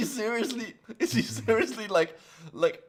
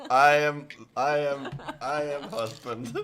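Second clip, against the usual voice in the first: put-on Slavic accent. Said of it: "I really wanted to do a Slavic voice".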